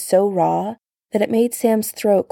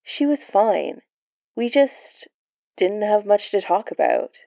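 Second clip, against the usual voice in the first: tired, flat voice; 2 semitones higher than usual. Acted. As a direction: say it worn out. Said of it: "Steve's voice was tired".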